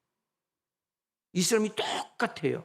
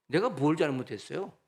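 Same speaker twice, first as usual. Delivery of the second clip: complaining sick believer; 5 semitones higher, 3 dB louder than usual. Retold or imitated. Sick believer protesting to God, building from mutter to louder, higher outcry. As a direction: grumble at God, then cry out higher and louder in mock outrage. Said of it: "그럼 이렇게 원망합니다".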